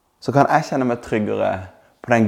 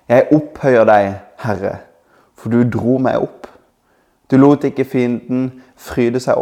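scripture reading. Acted. Reads Psalm 30 aloud. (høytidelig opplesning av salmen)

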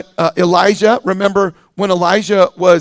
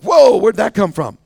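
mock surprise; 2 semitones higher, 4 dB louder than usual. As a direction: act lightly taken aback by a stray thought. Imagined churchgoer startled by stray thought.

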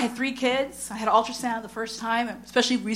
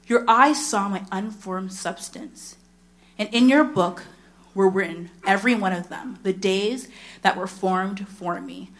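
slow, measured reading of a psalm; scripture reading; 2 semitones lower than usual. Acted. Preacher reading Psalm 139 to the congregation, slow and reverent. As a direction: read the verses slowly and reverently.

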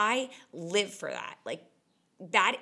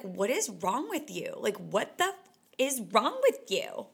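mock self-scolding; 2 semitones higher than usual. Scolding herself like the Kardashian TikTok, mock outrage. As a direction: snap at yourself like the TikTok clip. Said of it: "Like that Kardashian TikTok".

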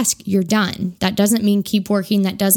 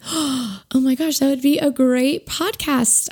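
excited realization; 5 semitones higher, slower than usual. Retold or imitated. Retold sudden realization, slowed.

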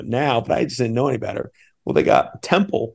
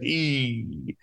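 drawn-out, softer hesitant "eee"; imitated reluctant "eee"; 2 semitones higher, 8 dB quieter than usual. Coach hearing mom ask for Temple, reluctant "eee". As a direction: mimic a long wince at an awkward request.

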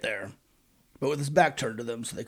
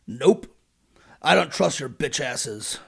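curt dismissal; slower than usual. Retold or imitated. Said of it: "Joseph replied".

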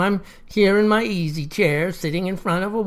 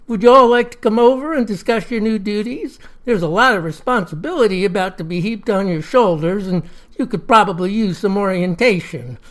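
friendly. Acted. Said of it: "said real friendly like".

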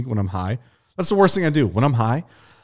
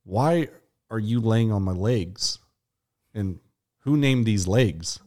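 stoned wonder; slower than usual. Retold or imitated. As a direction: drift through it like a baffled stoner. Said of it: "And, like".

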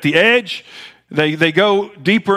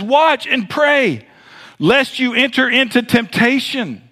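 slow, high, deliberate plea; Jesus urging; 5 semitones higher than usual. Acted. Jesus urging the disciples to watch and pray, slow and high. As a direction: draw out each word as a pleading command.

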